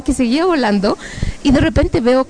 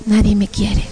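plain, unembellished repetition of the taunt; resigned echo, acted; own echoing voice. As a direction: echo the demon in your own voice. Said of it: "Y yo".

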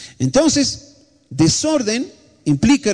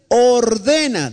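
ordena stretched out slowly, falling at the end; slow drawn-out command; 3 semitones higher, much slower than usual. Shown as a demonstration. Preacher models ordena for the church to repeat, slow and solemn. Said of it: "diga conmigo".

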